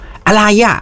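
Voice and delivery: high, startled "อะไรอะ?" as if peeking at a noise; mock startled question; nosy curiosity. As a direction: imitate a curious onlooker asking what's going on, pitch jumping up. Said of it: "อย่าไปแบบ".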